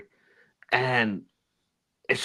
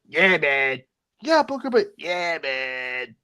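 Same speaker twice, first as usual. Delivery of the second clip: lightly imitated fed-up announcer; mock weary, irritated agreement; annoyed commentator; slower than usual. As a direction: humor him with an annoyed "yeah, man". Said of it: "just sounds so fucking annoyed".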